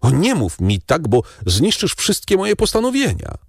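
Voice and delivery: mother begs her son not to speak so, rising anguish; crying out. A narrator's reading. Matka błaga syna, coraz wyżej, w rozpaczy. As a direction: pitch climbing high in distress. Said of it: "zawołała Mercedes".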